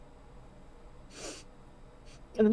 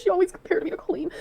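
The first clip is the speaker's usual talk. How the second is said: tearful; 9 semitones higher than usual. Real, not acted. Tearful complaint about the partner.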